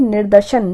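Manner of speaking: निर्देशन said slowly and clearly with a falling close; slow careful word. Shown as a demonstration. Teacher models the right word for students, carefully. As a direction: spell out निर्देशन slowly for the class. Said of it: "शुद्ध बढ़ती क्या होती है".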